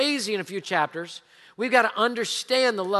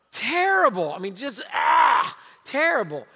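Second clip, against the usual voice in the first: half-laughing exclaim over how bad it was; emphatic lament. Real, not acted. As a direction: wail the word terrible. Grief over son leaving.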